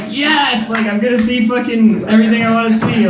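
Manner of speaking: triumphant. Retold or imitated. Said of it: "I'm like".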